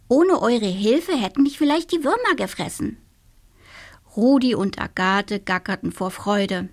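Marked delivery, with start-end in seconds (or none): 0.1-3.0 high little witch voice, thankful; the cheerful little witch giving thanks; grateful little witch. Acted. (dankbare kleine Hexe, hohe Stimme)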